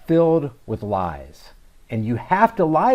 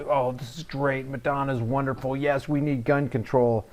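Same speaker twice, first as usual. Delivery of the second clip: gushing commenters; 4 dB quieter than usual. Retold or imitated. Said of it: "There's a lot of great, you know".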